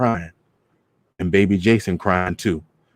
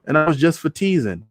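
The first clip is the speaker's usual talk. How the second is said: higher, brushing it off; dismissive teasing; 7 semitones higher than usual. Retold or imitated. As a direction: wave it away lightly. Just how he said it.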